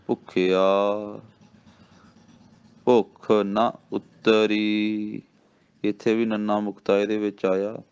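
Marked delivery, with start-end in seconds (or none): 0.1-5.2 ਭੁੱਖਿਆ, then a clear pause, then ਭੁੱਖ ਨਾ ਉਤਰੀ slowly; slow recitation with a pause after ਭੁੱਖਿਆ. Shown as a demonstration. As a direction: hold a break after ਭੁੱਖਿਆ before going on. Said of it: "ਠਹਿਰਾਓ ਦੇਣਾ।".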